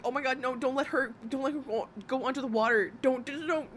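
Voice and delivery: hammed-up panicky mother pleading; mock panic. Mother retelling watching her daughter swim, in mock panic. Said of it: "I'm, like, fucking panicking".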